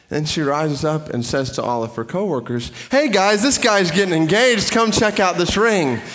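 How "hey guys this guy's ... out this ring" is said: high, loud call across the store. Retold or imitated. Clerk calling her coworkers over to see the ring, loud and high. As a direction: shout it out to the coworkers.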